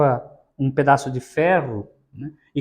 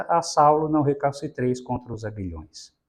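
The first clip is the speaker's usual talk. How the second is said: loving and firm. Retold or imitated. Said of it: "de uma forma amorosa e firme acrescenta".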